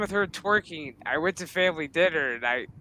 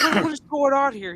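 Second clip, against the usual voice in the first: higher-pitched retold disbelief; mock bewilderment, pitched up; bewildered dad; 6 semitones higher than usual. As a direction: imitate a dad who can't believe it. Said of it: "my dad's jaw just dropped".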